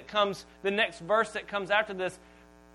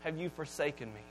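slowed, raised plea that falls away; mild mock scream; 4 dB louder than usual. Preacher reenacting Jesus screaming to God, restrained. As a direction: stretch the question, then let it sink. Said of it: "He screams out".

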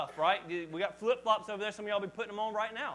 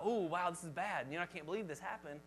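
shocked; 4 semitones lower, 7 dB quieter than usual. Retold or imitated. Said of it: "And I was shocked".

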